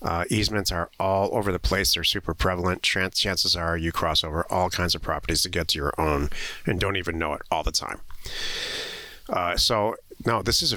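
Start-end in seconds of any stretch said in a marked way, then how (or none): none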